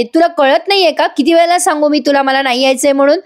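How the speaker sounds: mock yelling back at her mother; retold shouting. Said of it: "आरडाओरडा करू नको".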